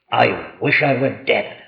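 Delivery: low, soft, weary sigh of despair; mournful sigh. Retold or imitated. Preacher mimicking a despairing Christian, low and soft. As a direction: sigh it like someone who's given up. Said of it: "like that, in that tone of voice".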